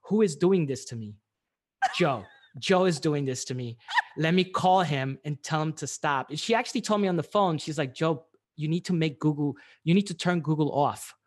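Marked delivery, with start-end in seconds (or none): 0.0-6.3 louder, mildly indignant self-talk; retold freak-out. Florist to herself as orders pile up, freaked out. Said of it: "that's when she freaked out". 7.9-11.1 louder, insistent demand; retold freak-out. Florist on the phone to consultant, freaking out. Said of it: "like, was freaking out".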